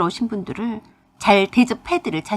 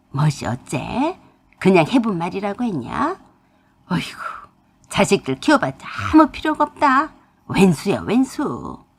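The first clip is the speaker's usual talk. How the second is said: furious mother. Acted. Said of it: "소리를 고래고래 지르셨어요".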